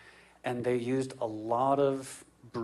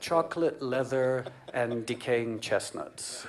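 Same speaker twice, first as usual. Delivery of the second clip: wine snob; slower than usual. Retold or imitated. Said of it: "sound like a sommelier and be like".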